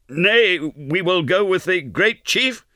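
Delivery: very high, slow, panicky correction; hasty appeasement from a terrified captive, drawn out and high; frightened pleading. A narrator's reading. Terrified man gives in, being choked.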